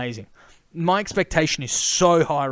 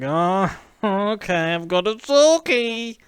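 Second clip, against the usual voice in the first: higher, slow, drawn-out snooty voice; snobby mock photographer; 3 semitones higher, 3 dB louder, slower than usual. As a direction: sneer it slowly like an unimpressed snob.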